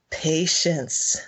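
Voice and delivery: deliberately slow, measured word; slow for emphasis. Real, not acted. Stressing her lesson to a friend, slow for emphasis. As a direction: give the word weight, unhurried. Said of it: "I deliberately say that slowly for emphasis".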